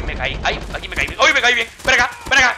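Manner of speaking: usual speaking voice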